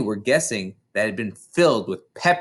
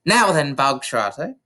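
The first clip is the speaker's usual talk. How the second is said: booming; 2 semitones higher than usual. Acted. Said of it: "the Trunchbull boomed".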